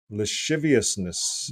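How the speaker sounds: "Lasciviousness" as luh-SHIV-ee-us-ness; slow "Lasciviousness" with a "sh" for the "sc"; wife's pronunciation. Retold or imitated. Host repeating his wife's attempt, "Lasciviousness" as luh-SHIV-ee-us-ness. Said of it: "That's what my wife said".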